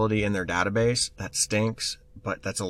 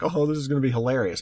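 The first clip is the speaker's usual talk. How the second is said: fast, slightly higher mock glee; a snickering prankster plotting; gleeful troll; 4 semitones higher, faster than usual. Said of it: "somebody who's like".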